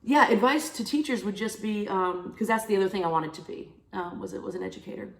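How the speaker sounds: sniffly, stuffy voice; sniffling. Real, not acted. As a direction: speak with a runny nose. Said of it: "Sorry, I'm so sniffly".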